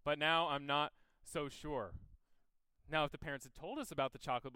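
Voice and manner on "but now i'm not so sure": put-on higher, anxious, rushing babysitter; flustered dithering. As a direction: fret aloud, talking fast and unsure. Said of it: "and you're like".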